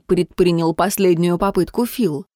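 usual speaking voice

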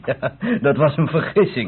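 chuckling through the words; amused, half-laughing admission. Acted. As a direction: laugh it off as a silly mistake. Amused explaining the mix-up.

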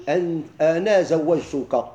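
slow formula. Shown as a demonstration. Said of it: "شوف".

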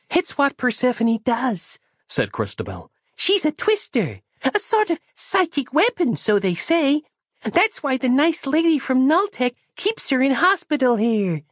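put-on high, childlike, earnest voice; a naive small girl explaining; high child's voice, trusting and matter-of-fact; innocent little girl. Christabel's voice held.

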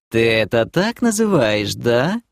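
sultry, suggestive drawl; lustful drawl. Acted. Demoness teases the bald elf, sultry drawl. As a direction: purr it out with innuendo. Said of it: "сладострастно протянула демоница".

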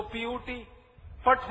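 "पट" with short uh, rhyming with but; deliberately mispronounced PUT. Shown as a demonstration. Speaker mocks English logic to audience, "पट" rhyming with but. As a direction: spell it, pause, then land on "पट" with uh. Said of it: "होना चाहिए".

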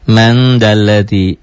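MAN with a long veiled N into DALLADHI; ikhfa recitation. Shown as a demonstration. Teacher giving an example of nun before zal, slow veiled N. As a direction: recite slowly, holding the blurred nasal of MAN. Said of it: "Hukumnya ikhfa".

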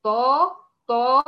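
طا drawn out slowly with full emphasis; heavy ta demo. Shown as a demonstration. Teacher isolating the letter ta. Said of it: "الطاء من حروف ال- المستعلية المطبقة".

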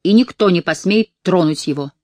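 steady, firm warning. Acted. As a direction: stand your ground. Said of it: "твёрдо сказала она".

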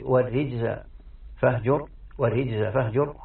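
والرجز recited as "war-rijza", i after the r; kasra on the ra. Shown as a demonstration. Teacher reciting the kasra reading, والرجز said "war-rijza". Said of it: "بالكسر، فهي".

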